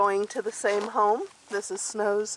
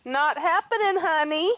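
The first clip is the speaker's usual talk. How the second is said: high, sing-song teasing to a goat; higher playful refusal; 12 semitones higher than usual. Real, not acted. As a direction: coax the goat that there's no food.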